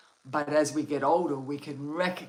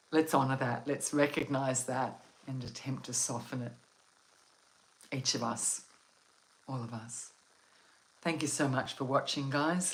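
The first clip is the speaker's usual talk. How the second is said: guided meditation. Acted. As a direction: guide them gently into calm. Leads a relaxation meditation.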